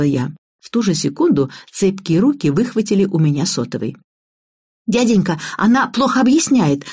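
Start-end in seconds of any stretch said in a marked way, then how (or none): 4.9-6.8 put-on higher-pitched, eager child voice; lightly voiced girl cutting in; gabbling girl. A narrator's reading. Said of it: "зачастила Ира". (детская торопливая интонация, повыше)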